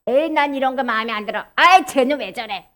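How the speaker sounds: lightly acted grumble, a bit low; mock petty griping; grumbling complaint. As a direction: complain under a touch of annoyance. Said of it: "이렇게 불평하는 거".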